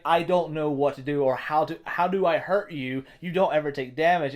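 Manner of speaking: mildly exasperated retold panic; mock freak-out. Opponent who cannot hurt you, mock freak-out. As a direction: imitate a flustered opponent, lightly panicked. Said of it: "he's just freaking out".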